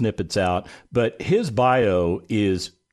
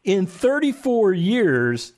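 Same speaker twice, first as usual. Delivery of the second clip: laughing words; 9 semitones higher, much slower than usual. Real, not acted. Host still laughing as he questions guest. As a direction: talk through the laugh.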